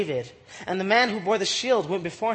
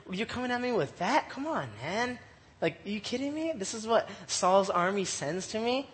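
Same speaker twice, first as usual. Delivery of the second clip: softly spoken mock disbelief; softly acted incredulity; incredulous Goliath; 7 dB quieter than usual. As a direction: quietly scoff at a puny challenger. Acting out scornful Goliath.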